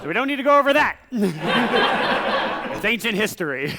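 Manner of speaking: words squeezed out through laughter; can't stop giggling while dismissing it; laughing off the fall of Rome. Real, not acted.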